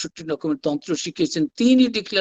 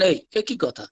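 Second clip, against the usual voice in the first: mild imitated scolding; 4 semitones higher than usual. Master telling others not to force Naren, mild acted scolding. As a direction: retell a chiding lightly, pitch lifted. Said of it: "ঠাকুর তাকে ধমক দিয়ে বলছেন".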